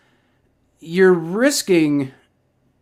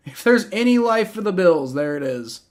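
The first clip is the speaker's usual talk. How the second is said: subdued repeat; 3 semitones higher than usual. Real, not acted. Streamer concedes life for the Bills, voice winding down. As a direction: let the exclamation wind down.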